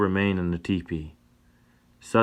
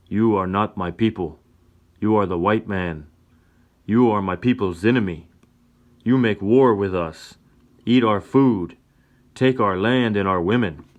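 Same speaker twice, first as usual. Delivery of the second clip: angry; 6 dB louder than usual. Acted. Chief's angry accusation.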